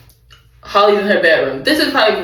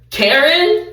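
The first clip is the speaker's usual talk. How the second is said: high, crying, pleading voice; whiny called-out voice; 13 semitones higher than usual. Acted. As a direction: whimper it out like a pitiful caller. Voicing a character calling Karen.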